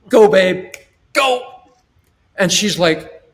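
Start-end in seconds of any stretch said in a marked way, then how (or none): 0.1-1.6 loud, higher, cheering her out the door; upbeat urging. Retold or imitated. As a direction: hype her up to go, smiling. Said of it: "now you put the smile on".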